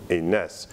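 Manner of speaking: "enas" with the two a's merged into one; vowels contracted. Shown as a demonstration. Teacher showing contraction, "enas" said with one vowel. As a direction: squeeze the vowels of "enas" into a single a. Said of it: "contraction des voyelles comme".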